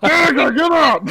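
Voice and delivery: loud, high wake-up call. Acted. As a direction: shout her awake. Waking a sleeping friend.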